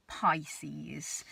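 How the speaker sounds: breathy whispered reveal. Acted. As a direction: whisper the name like a secret. Dramatic whispered sign name.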